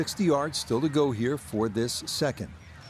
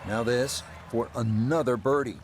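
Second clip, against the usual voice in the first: calm TV golf commentary; golf commentator. Acted. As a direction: call the hole like a broadcaster.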